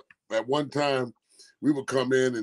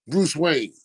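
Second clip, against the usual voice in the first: whisper; 3 semitones higher, 6 dB louder than usual. Retold or imitated. Dramatic reveal.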